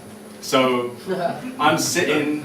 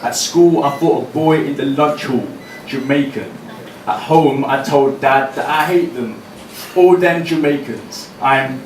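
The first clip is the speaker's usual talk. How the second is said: raised, ringing performance poem voice; spoken word poem; 3 semitones higher than usual. Acted. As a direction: deliver each line to the room like a slam poem.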